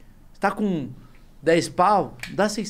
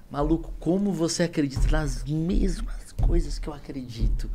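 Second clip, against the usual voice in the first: slow, whispered amazement; hushed, drawn-out marvelling; retold awe; slower than usual. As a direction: whisper it slowly, as if in disbelief. Retelling his awestruck reaction to Gaulês.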